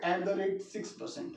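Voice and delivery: slow dictation pace; speaking while writing. Real, not acted. Teacher saying aloud what he writes, slow dictation. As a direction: say it slowly as you write it out. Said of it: "मैं बोल भी रहा हूँ साथ के साथ".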